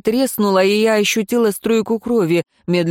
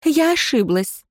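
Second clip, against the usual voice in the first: higher, fawning; chirping apology; 7 semitones higher than usual. Acted. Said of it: "защебетала она".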